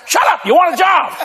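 sudden high yell of shut up; mock shout. Pastor cutting off an excuse, acted.

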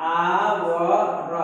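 आवर very slow, with the h dropped; "hour" with a silent h, drawn out. Shown as a demonstration. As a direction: stretch out आवर, starting on the vowel. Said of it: "आवर पढ़ते हैं ना".

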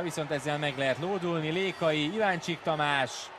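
building excited play-by-play; rising into a loud goal call; excited hungarian sports commentary. Real, not acted. Live fast break call.

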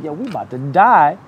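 high, rising panic, voice climbing; we're sure we're about to die on this bus; panicked. Retold or imitated. To his friends on the wild bus ride, panicked and high. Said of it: "We looking at each other like".

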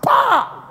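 sharp high shouted "bah"; mock slap noise. Pastor imitating slapping his son in service. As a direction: pop it like a slap.

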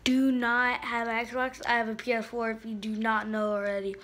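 talking while chewing gum; words around a wad of gum. Real, not acted. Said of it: "I'm sorry, I'm chewing gum".

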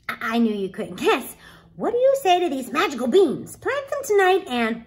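put-on proud boy building up to his big reveal; high, excited pitch as Jack showing off; eager young Jack.

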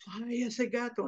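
put-on mildly shaken little boy; boy copying dad. Boy on the couch copying his dad, mildly shaken. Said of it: "like his dad".

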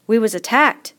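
anxious schoolboy; fat boy voice. Acted.

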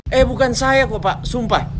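a high, whiny denial; pleading kid. Acted. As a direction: swear innocence like a child. Kid denies to teacher.

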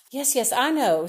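a hurried, cutting-off yes yes; said quickly. A narrator's reading. Mother cutting off a chatty neighbour, hurried. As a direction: rush it to end the call. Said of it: "said Patsy's mother quickly".

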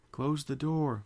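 high, urgent yell. Acted. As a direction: shout the order, urgent. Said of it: "Fluttershy yelled".

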